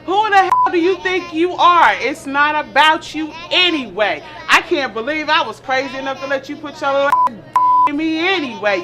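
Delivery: sharp rising irritation; snapping back at her man; calm turning angry. Acted. Wife quarrels with husband.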